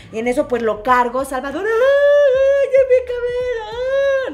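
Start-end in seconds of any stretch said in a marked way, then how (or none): 1.7-4.3 put-on high, loud wailing little boy; crying child. Son crying out after hitting his head on the nightstand, loud and high. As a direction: wail like a hurt kid.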